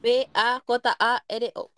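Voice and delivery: letters spelled out slowly one by one; slow spelling. Shown as a demonstration. Spelling bee game among friends, slow letter by letter.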